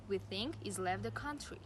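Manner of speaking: "he's" said as "ee's" after "think"; dropped H. Shown as a demonstration. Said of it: "Here are some more examples".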